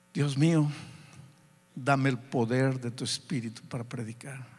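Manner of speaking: low, earnest petition; retold prayer. Pastor praying before he preaches, earnest and low. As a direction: pray it simply and low. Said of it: "hice la oración que siempre hago".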